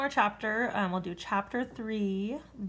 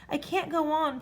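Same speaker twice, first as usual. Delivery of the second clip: puffing; 7 semitones higher than usual. A narrator's reading. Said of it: "puffed the dragon".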